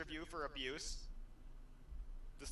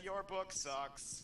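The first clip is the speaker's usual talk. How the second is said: mock reply; 5 semitones higher, much slower than usual. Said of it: "write a reply that says".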